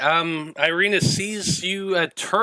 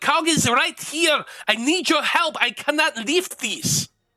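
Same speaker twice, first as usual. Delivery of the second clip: shouting, high and urgent; 9 semitones higher than usual. Voicing a character who calls out to a running ally: yelling for help. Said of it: "she just yells out to you".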